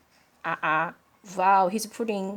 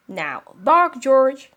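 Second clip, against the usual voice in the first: loud, high firm order; insistent command; 6 semitones higher, 8 dB louder, slower than usual. Acted. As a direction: really demand it now. Mother insisting.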